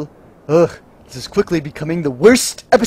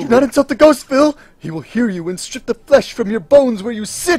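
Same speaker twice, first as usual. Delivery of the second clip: dramatic warning; 5 semitones higher, 3 dB louder than usual. Acted. Warning dramatically about the ghost.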